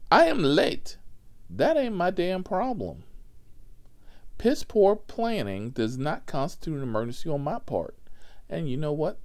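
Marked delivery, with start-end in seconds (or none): 0.1-8.0 loud, high, firm driver's retort; retold firm retort. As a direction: put her in her place loudly. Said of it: "honest to God words that I said".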